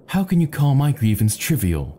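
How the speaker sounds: narrated shout, pitched well up; indignant shout. A narrator's reading. Bosun protesting to the cabin boy, understated indignant shout. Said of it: "shouted the bosun".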